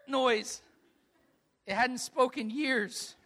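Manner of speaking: laughing through the words; can't keep from laughing as you tell it; laughing, a little choked up. Real, not acted.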